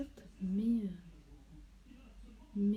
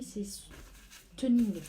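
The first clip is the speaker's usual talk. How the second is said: Stunning stretched very slowly and louder; drawn-out emphasis; 3 semitones higher, 5 dB louder, much slower than usual. Real, not acted. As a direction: lean hard on Stunning, drawing it out. Announcing a new blush name.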